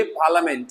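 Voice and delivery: पार्लियामेंट said as "PAA-luh-ment"; no "ya" sound in पार्लियामेंट; पार्लियामेंट in three syllables; silent-i pronunciation. Shown as a demonstration. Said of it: "लिया नहीं".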